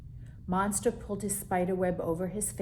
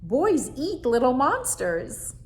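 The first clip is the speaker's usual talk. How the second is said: frightened monster; 5 semitones higher, 8 dB louder than usual. Acted. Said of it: "said Monster".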